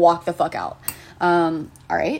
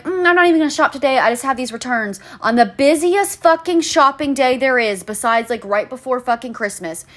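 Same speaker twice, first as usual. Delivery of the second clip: much higher, fast airy mock customer; mock clueless shopper; 4 semitones higher, 3 dB louder than usual. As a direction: mimic the shopper's breezy logic. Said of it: "and you're like".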